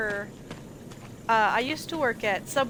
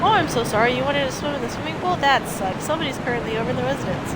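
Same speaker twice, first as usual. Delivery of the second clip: mock apology; 3 semitones higher, 3 dB louder, faster than usual. Mocking the game's excuses.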